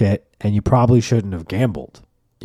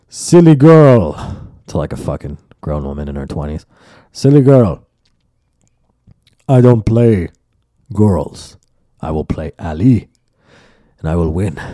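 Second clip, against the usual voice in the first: condescending man; 4 semitones lower, 4 dB louder than usual. Retold or imitated. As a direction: talk down to her like a child. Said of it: "And Dave's like".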